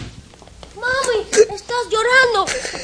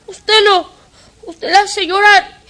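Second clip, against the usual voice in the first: put-on tearful child; 9 semitones higher than usual. Child defends his mami.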